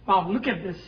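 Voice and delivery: ordinary talk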